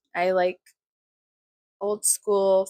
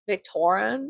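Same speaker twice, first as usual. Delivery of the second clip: Victorian slipping into an odd accent; slower than usual. Real, not acted. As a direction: say Victorian in an accidental, unplaceable accent. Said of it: "What the fuck was that accent?".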